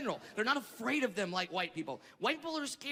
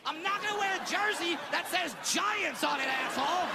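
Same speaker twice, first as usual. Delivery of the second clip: mock angry shout; 8 semitones higher than usual. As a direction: yell it back, indignant. Heated argument with station.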